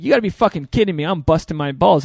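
exasperated outburst at the unfairness. Retold or imitated. Retold frustration at lucky millionaires.

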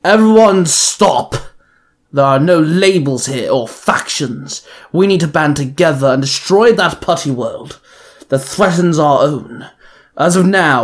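yelled. Acted. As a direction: yell the room to order, slowly. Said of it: "Mister Pocket yelled".

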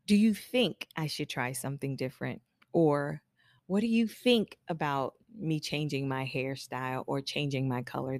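tentative asking. Acted. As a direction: float it as a hesitant question. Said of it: "rather than".

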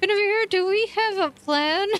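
high tense words through clenched teeth; through gritted teeth. Acted. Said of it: "she says this through gritted teeth".

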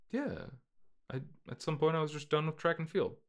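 high, quick, small voice; excuse-making son. Acted. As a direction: offer Dad a lame, hurried excuse. Acted son making excuses to father.

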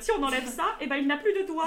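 lecturer's line rising into laughter; mock lecturer, laughing. Student mimics a biology lecturer, laughing. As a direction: parody the teacher's casual gore, laughing. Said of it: "t'es en mode".

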